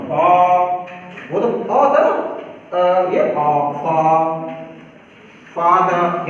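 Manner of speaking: फा held with a long open aa; long aa demo. Shown as a demonstration. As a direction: let them hear the big aa in फा. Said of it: "बड़ा आ सब सुन लो". (फा में बड़ा आ खुलकर बोलना)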